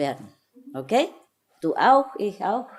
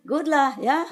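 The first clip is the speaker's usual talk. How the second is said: Singlish; 8 semitones higher, 3 dB louder than usual. Retold or imitated. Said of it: "that's the Singaporean. Singlish".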